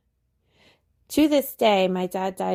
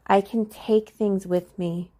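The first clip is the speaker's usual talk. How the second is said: ordinary talk, nothing marked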